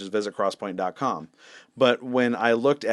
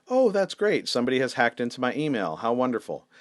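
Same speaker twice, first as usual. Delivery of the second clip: sarcastic. Retold or imitated. Pastor sarcastically greeting news of his hacked email. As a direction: fake delight over bad news.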